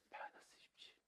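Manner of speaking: breathy whispered imitation, very soft; 공기 반 소리 반 mimicry. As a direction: mimic an answer made mostly of air. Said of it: "왜 공기반 소리반으로 내죠". (공기 반 소리 반으로 속삭이듯 흉내)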